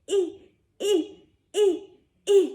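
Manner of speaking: eh as a strained reaching grunt; eh, eh, eh, like reaching up high; little I sound; short I sound. Shown as a demonstration. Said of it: "which is the sound of the little I".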